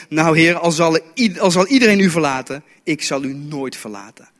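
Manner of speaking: a touch of emphatic bravado, easing off at the end; lightly acted boastful vow; mild bravado. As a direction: pledge loyalty with mock bravado. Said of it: "Petrus zegt vol bravoure".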